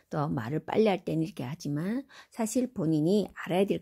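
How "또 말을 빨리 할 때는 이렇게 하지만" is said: normal talking voice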